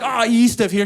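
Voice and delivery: evasive. Retold or imitated. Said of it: "I'm like".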